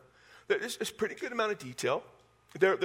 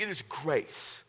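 slow emphasis; 5 dB quieter, much slower than usual. Acted. Repeating the key meaning slowly.

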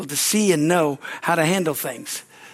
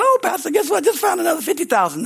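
imitating excited lady; 12 semitones higher than usual. Rich lady phones with news.

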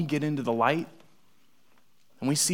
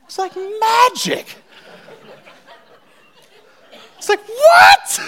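far higher, slow, ends in a laughing shout; high squeaky wonder breaking into a laugh; amazed; 9 dB louder, slower than usual. Real, not acted. Amazed at the ketchup trick.

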